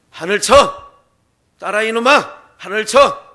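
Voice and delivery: loud commanding chant for the pupil to repeat; shouting out the lesson; barked drill. Acted. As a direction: schoolmaster drilling a stubborn boy. Teacher drills the boy loudly.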